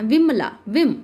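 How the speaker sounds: विमला and विम with a quick, short "vi"; short quick vowel. Shown as a demonstration. Teacher showing learners the short i sign, short quick vowel. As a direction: keep the "i" in विमला brief and snappy. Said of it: "बहुत जल्दी से इसको बोलना है".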